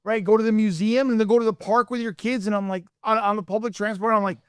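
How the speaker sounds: a hint of a German accent on the praise. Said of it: "I love how you went to the German accent".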